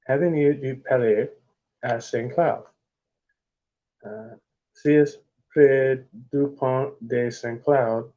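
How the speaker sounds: slow, halting French reading; stumbling through Avenue du Palais à Saint Cloud in French; attempted French. Shown as a demonstration. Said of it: "I fucked that one up bad".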